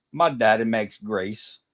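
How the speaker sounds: slow, drawn-out Mississippi drawl; a kid from the hills of Mississippi, drawling slowly; slow Southern kid. Retold or imitated. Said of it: "He said the best one".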